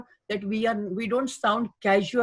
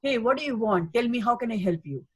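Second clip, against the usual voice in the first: polite helpful tone. Shown as a demonstration. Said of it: "instead of that, if I say".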